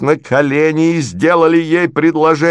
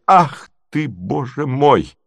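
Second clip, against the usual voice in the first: usual speaking voice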